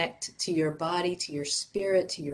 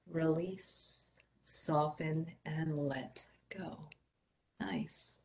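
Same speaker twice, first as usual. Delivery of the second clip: guided meditation. Acted. Instructor leading a group through grounding stretches before meditation, guided meditation voice.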